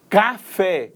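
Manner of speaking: "Café" in two clear beats; stress on last syllable. Shown as a demonstration. Teacher showing an accented oxytone, final stress on "Café". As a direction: separate "Ca" and land on "fé". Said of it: "A sílaba tônica está na última".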